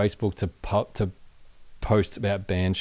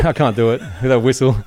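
laughing; 3 semitones higher, 6 dB louder than usual. Real, not acted. Laughing through failed impression.

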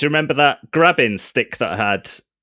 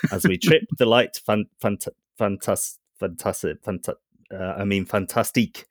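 robot voice. Acted. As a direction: speak like a ship AI. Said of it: "My robot voice?".

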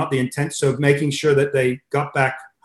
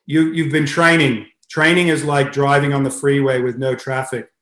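put-on Russian accent. Russian coach explaining easy training to his swimmers, light Russian accent. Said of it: "I'll try to put my Russian accent".

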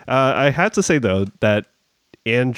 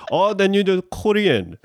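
higher-pitched mock Korean questioner; lightly acted questioner, pitch swooping high; surprised Korean questioner; 10 semitones higher than usual. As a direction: imitate a delighted realization, pitched well up. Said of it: "And then they're like".

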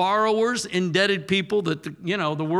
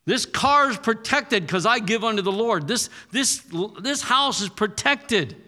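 higher, forceful declaration; rebuking the devil; 5 semitones higher than usual. Shown as a demonstration. Preacher telling the devil to back off, forceful. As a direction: stake your claim against the devil. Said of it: "Or tell the devil".

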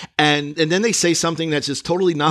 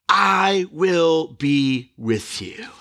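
slow promise; much slower than usual. Acted. God's promise quoted slowly.

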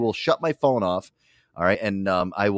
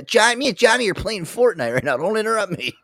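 put-on bratty kid; 10 semitones higher than usual. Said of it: "I got".

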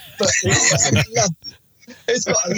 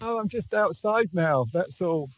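muffled and distant; faint, boxed-in voice; inside a jar; 5 dB quieter than usual. Real, not acted. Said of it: "but you're very quiet".

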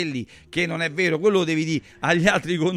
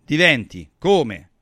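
higher and louder, hammering the point; heated rant; 5 semitones higher, 6 dB louder than usual. Real, not acted. Pundit defending hair transplants to the host, heated and loud. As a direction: rant passionately that fixing yourself is fine.

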